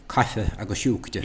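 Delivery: "cafe agus shukra" as "ka-huh agus shook-tuh"; corrected pronunciation. Shown as a demonstration. Teacher correcting the phrase, Irish "cafe agus shukra". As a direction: end "cafe" and "shukra" on weak schwas. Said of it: "it's the same mispronunciations over and over".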